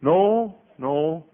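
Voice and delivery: emphatic denial. Acted. Acted emphatic denial of titles.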